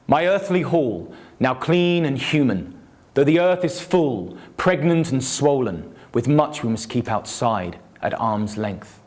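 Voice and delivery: slow, measured declaiming that fades at the end; dramatic king's speech. Shown as a demonstration. Poet reading Hrothgar's later lines, slow and lightly dramatic. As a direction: let each line hang, then trail off. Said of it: "I'll try and drama it up a bit".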